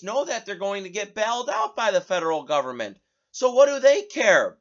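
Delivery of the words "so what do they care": loud. Real, not acted. Rising outrage.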